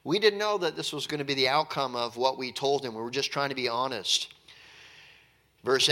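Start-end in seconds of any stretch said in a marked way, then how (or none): 0.0-4.3 defending themselves. Retold or imitated. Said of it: "They say".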